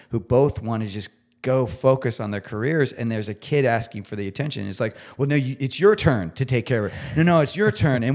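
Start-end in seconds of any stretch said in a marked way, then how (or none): 5.2-8.0 mock bickering, rising and louder on the retort; arguing back. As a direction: push the job back, insistent. Acted fight over childcare.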